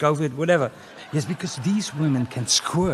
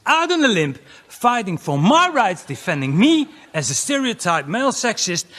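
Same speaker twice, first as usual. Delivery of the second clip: mock earnest; 7 semitones higher, 6 dB louder than usual.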